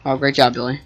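dry mock praise; sarcastic. Real, not acted. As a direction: praise him but mean the opposite. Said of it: "That was sarcasm".

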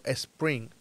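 imitating learners' "spring" as "espring"; added initial E. Teacher imitating what many learners say, "spring" with E in front. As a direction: start "spring" with an extra E sound. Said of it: "He escuchado a mucha gente diciendo".

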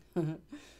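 brief closed-mouth chuckle; quick amused huff; small chuckle. Real, not acted. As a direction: let a little laugh slip out. Amused while guiding the meditation.

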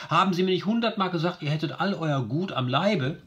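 put-on high, fast wailing cry of a wronged old trader; a hammed-up, high lament. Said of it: "schreit immer".

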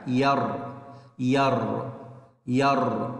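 ير said with a clean stop on the still ر; closed syllable ير held and stopped. Shown as a demonstration. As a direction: cut ير off sharply at the ر. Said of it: "هذا اسمه مقطع ساكن".

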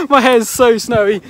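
laughing through the words; giggling while talking. Real, not acted. Laughing at snowy hair.

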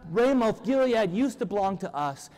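high, drawn-out mock royal rant; hammed-up yelling, stretching words in exasperation; worked-up yell. Bored king rants about peace to his people, yelling. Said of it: "he yells".

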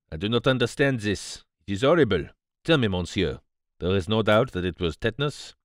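put-on earnest foreign-accented questioning; troubled Poirot. Poirot questions the archaeologist about the death, troubled. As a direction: press for the truth in accented English.

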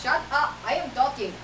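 annoyed mock Indian accent; put-on Indian accent, scolding. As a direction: silence the interruption, keeping the Indian accent. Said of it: "I have to practice my accent".

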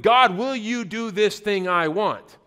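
slow, emphatic mock demand; acted-out insistent prayer. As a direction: lay down a selfish demand to God, word by word. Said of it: "we start prayers with".

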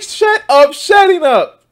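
a hammed-up Tucker Carlson telling him off; mock Tucker snapping. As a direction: bark it like a fed-up host. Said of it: "he's like".

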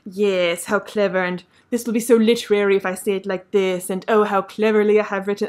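lightly put-on literary self-praise; a hint of a writer pleased with her own cleverness; mock self-admiring writer. Reviewer imagining the writer at her computer, lightly mocking self-congratulation. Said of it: "imagining the writer at her computer being like".

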